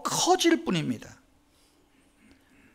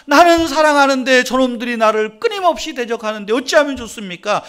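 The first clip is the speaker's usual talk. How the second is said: impassioned outcry to God; 5 semitones higher, 7 dB louder than usual. Retold or imitated. David crying out to God.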